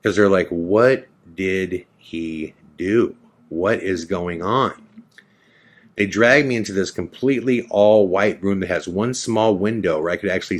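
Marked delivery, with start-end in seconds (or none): 0.5-4.7 slow, stunned word-by-word disbelief; freaked-out friends. Retold or imitated. Friends watching him dragged away, slow mock alarm. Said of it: "all my friends who are freaked out".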